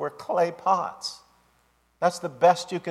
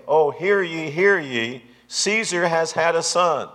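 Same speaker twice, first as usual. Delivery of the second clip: town crier proclaiming, a little louder, drawn out; herald's cry; 3 semitones higher, 3 dB louder, slower than usual. Acted. Herald announcing Caesar's news to a town crowd, mock proclamation. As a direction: call it out like a herald, half-shouted. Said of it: "cup their hands, scream out and say".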